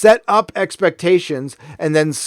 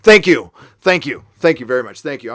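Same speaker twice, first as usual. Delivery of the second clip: Tech Tayun impression. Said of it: "I'm gonna do my Tech Tayun impression".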